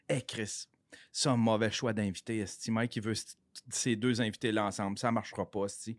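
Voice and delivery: low, soft grumbling to oneself; retold skeptical grumble. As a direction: imitate private misgivings, voice dropped. Acting out past misgivings about guests.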